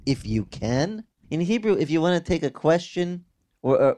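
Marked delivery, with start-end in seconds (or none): 0.0-1.0 questioning rise. Retold or imitated. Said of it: "Jesus says to him".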